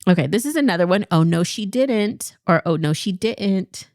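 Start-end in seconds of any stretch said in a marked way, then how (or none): 1.1-2.4 sassy first take. Shown as a demonstration. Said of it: "say it the second way". 2.6-3.9 second take. Shown as a demonstration. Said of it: "say it the second way".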